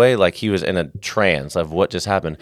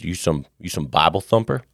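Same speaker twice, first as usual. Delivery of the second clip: wary homeless man; 2 semitones lower than usual. Retold or imitated. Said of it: "He goes".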